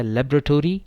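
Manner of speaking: लेबोरेटरी as lab-ra-tory, stress on lab; common American pronunciation. Shown as a demonstration. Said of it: "इसकी दो pronunciations हैं". (लेबोरेटरी आम उच्चारण, लैब पर ज़ोर)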